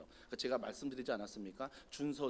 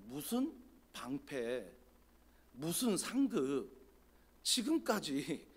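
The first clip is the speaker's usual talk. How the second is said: drawn-out, doubting mock grievance; mildly disbelieving complaint; much slower than usual. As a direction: question it slowly, lightly acting discontent. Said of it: "뉘앙스 아시겠습니까?".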